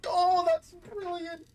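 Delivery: thrilled laughing surprise; excited. Real, not acted. Player delighted by game discovery.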